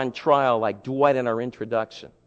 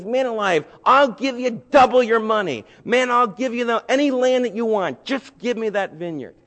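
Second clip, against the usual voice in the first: higher and louder, pressing eagerly; eager king's offer; 7 semitones higher, 4 dB louder than usual. Acted. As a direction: sell him hard on the deal. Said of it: "And he goes to Ahab and says".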